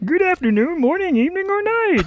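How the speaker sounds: put-on puppet frog voice. Opening the show and greeting everybody: Kermit voice. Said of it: "I'm Kermit".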